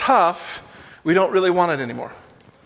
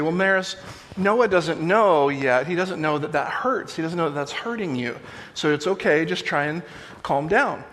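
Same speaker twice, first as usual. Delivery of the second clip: gently reassuring. Retold or imitated. Dad explaining to his sobbing daughter, gently reassuring.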